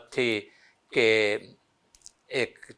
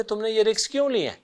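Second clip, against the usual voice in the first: scolding demand; 4 semitones higher, faster than usual. Retold or imitated. Bhutto scolding minister.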